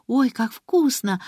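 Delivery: put-on slow, delighted gasp of a girl tasting something; a girl's slow gasp of delight at the taste. A narrator's reading. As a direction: breathe it out in wonder. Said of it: "ахнула Алиса".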